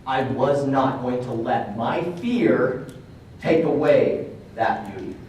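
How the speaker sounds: slow, deliberate retold vow; retold firm declaration, drawn out; solemn resolve. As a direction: weigh every word, unhurried.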